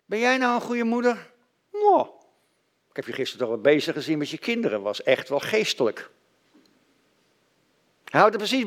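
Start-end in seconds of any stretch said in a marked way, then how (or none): 0.1-6.1 accusing devil. Acted. Preacher voices the accusing devil.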